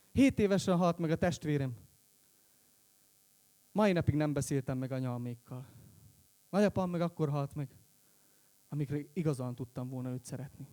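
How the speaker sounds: low-key, with long pauses; subdued confession. Real, not acted. Confesses family deaths at end.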